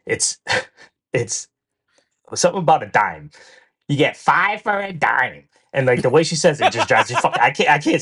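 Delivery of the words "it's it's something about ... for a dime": put-on Brooklyn accent. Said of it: "the Brooklyn accent".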